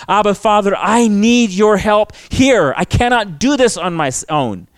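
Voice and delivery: mildly urgent plea, stretched on the need; acted cry to God, understated desperation; desperate plea. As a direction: plead earnestly for help. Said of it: "the desperate cry of the believer saying".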